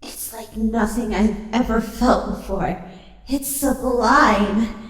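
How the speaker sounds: hushed wonder, tasting each word; rapturous hush. Acted. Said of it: "She whispered".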